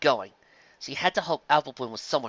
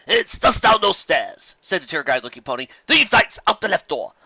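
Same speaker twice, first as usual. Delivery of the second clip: lightly voiced friendly unicorn, a bit higher; friendly stallion; 3 semitones higher, 6 dB louder than usual. Tour guide greets a lost pony, lightly voiced and friendly. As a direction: offer help like a polite tour guide.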